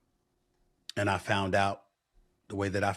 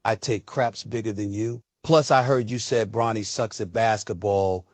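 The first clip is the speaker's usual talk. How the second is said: mock yell; 4 dB louder than usual. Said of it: "yelled in my face".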